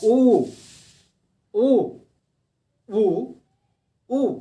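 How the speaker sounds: उ repeated, first loud and high, then fading; demo of उ. Shown as a demonstration. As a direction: round the lips and voice उ, letting it fade. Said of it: "हरस उ और दीर्घ उ". (होंठ गोल करके उ, धीरे-धीरे धीमा)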